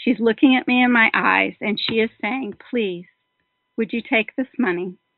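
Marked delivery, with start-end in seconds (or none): 2.7-4.9 imploring, begging, pleading tone. Retelling a mother pushing a check into their hands: imitating mother begging. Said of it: "she's begging me".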